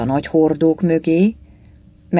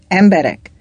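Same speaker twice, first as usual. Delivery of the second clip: raised, loud, alarmed call; terrified yell; 4 semitones higher, 6 dB louder than usual. A narrator's reading. The Greek alarmed at drunken soldiers, terrified yell. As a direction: cry out in fright to the crowd. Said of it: "üvöltötte rémülten a görög".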